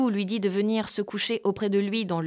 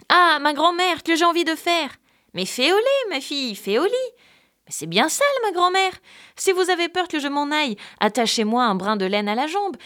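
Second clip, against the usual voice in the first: put-on higher little girl voice, a bit pleading; 6 semitones higher than usual. Frightened girl asking grandmother to go outside, pleading. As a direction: sound young and eager to get out.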